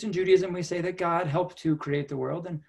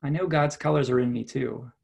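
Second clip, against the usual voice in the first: gentle storybook read-aloud; reading to children. Acted. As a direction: read it like story time for kids. Rabbi reads picture book aloud.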